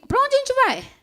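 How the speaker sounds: high, loud startled question; wife asking where we're going, shocked and high. Retold or imitated. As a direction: burst out in disbelief. Wife shocked husband packing alone.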